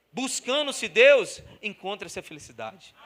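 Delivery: muito mais alto e lento; lento e forte. Real, not acted. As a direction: pausa cada palavra com peso. Frase-chave pregada. (proclamação lenta e alta)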